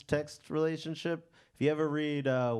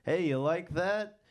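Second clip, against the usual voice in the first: awkward dirty talk; 5 semitones higher, much slower than usual. Retold or imitated. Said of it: "It ended up being".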